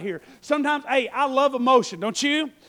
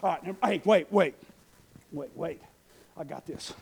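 much lower, softer fluster; flustered Nehemiah; 8 semitones lower, 6 dB quieter than usual. Acted. Nehemiah backs off before the queen, hushed and low. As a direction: stammer it down to near nothing. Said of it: "he's like".

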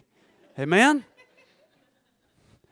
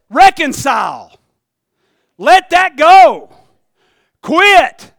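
loud, slow, higher command; commanding inner voice; 6 semitones higher, 12 dB louder, much slower than usual. Acted. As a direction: order him to let it go.

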